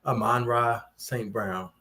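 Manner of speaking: "Amon-Ra Saint Brown" slow and measured, uh-MON-rah; personal pronunciation. Shown as a demonstration. Co-host giving his own pronunciation, slow careful demo. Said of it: "personally, I pronounce it".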